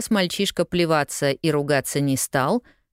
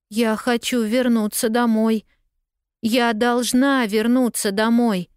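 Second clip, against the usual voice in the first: plaintive cry; 7 semitones higher than usual. A narrator's reading. Lost girl to newsboy, plaintive exclaim. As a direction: beg for any help. Pollyanna pleading.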